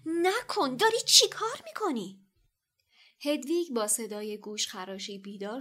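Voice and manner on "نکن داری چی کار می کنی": through gritted teeth. A narrator's reading. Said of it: "با دندانهای به هم فشرده گفت".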